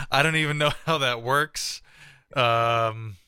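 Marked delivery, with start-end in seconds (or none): 0.1-1.8 higher-pitched, slightly goofy sound-alike; a hint of comic impression in a higher pitch; Chris Farley. Real, not acted. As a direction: accidentally slip into a comedian's voice. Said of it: "I sound like Chris Farley".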